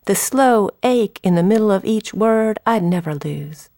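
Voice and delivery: measured storytelling recital; poem reading. Acted. Poet recalls mother correcting her speech, measured recital. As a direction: read the verse with pauses between lines. Reads Southern Accent poem.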